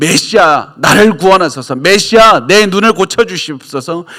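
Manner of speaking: high, loud, desperate crying out.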